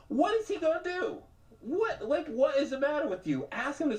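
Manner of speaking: high, pushy mock devil; goading devil voice. Shoulder devil pushing him to ask, high and pushy. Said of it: "the other one like".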